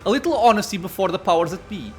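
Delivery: a hint of a commanding villain; lightly voiced scheming captor. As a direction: read the captor's lines with measured theatrical emphasis. Voices a game character's dialogue.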